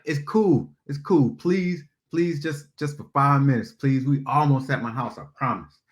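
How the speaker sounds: high, wheedling please; pleading. Retold or imitated. Phil to annoyed Jill, wheedling and high.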